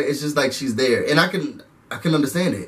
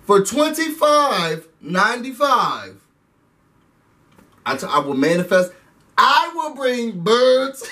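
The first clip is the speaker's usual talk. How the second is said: mock psychic pitch; 5 semitones higher than usual. Mocking the psychic's sales pitch.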